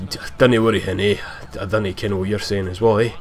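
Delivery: lightly put-on Scottish banter; Scottish accent. Imitating friends' Scottish humor to a listener, light Scottish accent. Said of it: "Scottish humor. They always say".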